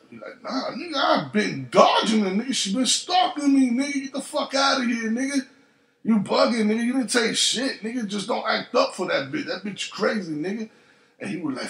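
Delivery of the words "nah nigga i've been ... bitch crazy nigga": high, worked-up rant to a friend; excited. Retold or imitated. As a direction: pitch it up and pile it on. Acted friend's long excited quote.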